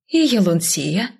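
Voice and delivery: slow rising question on "Елунсия". A narrator's reading. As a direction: draw out "И Елунсия" as a querying call. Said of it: "Вопросительно подняв бровь".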